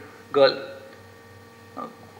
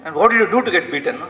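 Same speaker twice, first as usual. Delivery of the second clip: agitated father; 3 semitones higher than usual. Retold or imitated. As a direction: demand it like an irritated father. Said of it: "He's very agitated".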